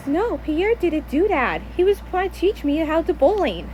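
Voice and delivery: acted soft-spoken denial; mom explaining. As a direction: gently protest in a lightly voiced mom part. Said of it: "And my mommy says".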